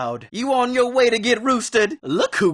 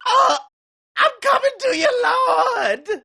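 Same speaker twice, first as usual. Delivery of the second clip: dying call to God. Acted. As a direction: call out to the Lord as you go. Dying man calls to God.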